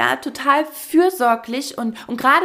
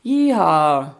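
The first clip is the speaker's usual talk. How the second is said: slow, reluctant, limp cowboy call; a timid Yeehaw that lacks conviction; half-hearted; 7 semitones lower, 3 dB louder than usual. Retold or imitated. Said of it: "Das klang dann auch erstmal wie".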